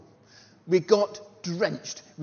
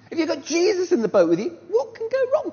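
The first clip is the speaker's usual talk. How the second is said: rhetorical build; 7 dB louder than usual. Real, not acted. Rhetorical preaching climax.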